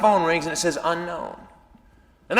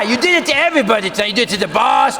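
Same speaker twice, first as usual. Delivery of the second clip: scolding; 4 semitones higher, 3 dB louder, faster than usual. Retold or imitated. Girlfriend lists his blunders.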